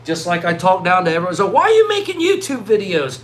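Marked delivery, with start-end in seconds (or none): 1.5-3.2 scoffing, laughing ridicule; mock scornful laugh; mocking doubters. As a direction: laugh at the idea like an old skeptic. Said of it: "talk down to everybody that didn't get YouTube".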